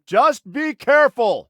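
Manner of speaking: high, loud, drawn-out plea; exasperated warning. Acted. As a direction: burst out with a frustrated caution.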